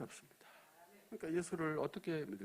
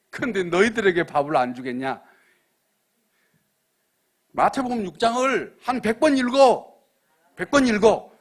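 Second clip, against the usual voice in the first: preaching shout; 7 semitones higher, 17 dB louder than usual. Real, not acted. Pastor commanding the congregation to read, shouting. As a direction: drive the order home to the pews.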